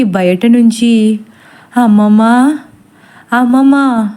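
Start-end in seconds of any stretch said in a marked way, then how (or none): 1.8-2.2 calling out. Acted. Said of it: "Mohini పిలుపు వినిపిస్తుంది". 3.3-4.1 calling again. Acted. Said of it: "Mohini పిలుపు వినిపిస్తుంది".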